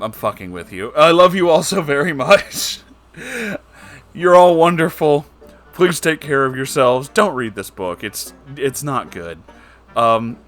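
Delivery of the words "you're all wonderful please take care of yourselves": usual speaking voice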